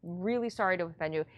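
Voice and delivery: gently and kindly bow out, keeping the volume down. Shown as a demonstration. Investor ending an upset caller's phone call, very kindly. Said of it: "You can very kindly say".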